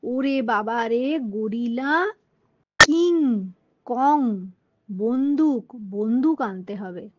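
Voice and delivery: panicked shout. A narrator's reading. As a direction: yell the uncle's fright, peaking on king. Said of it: "চিৎকার করে উঠে বলল".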